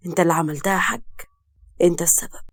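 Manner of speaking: low, wounded reproach; pained accusation. A narrator's reading. Arrested son to his father, pained accusation. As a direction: accuse him heavily, without raising your voice. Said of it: "وهز راسه بوجع".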